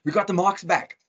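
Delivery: put-on excited child, pitched high; imitating a thrilled daughter. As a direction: announce it proudly, high and drawn out. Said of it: "I can see she's excited".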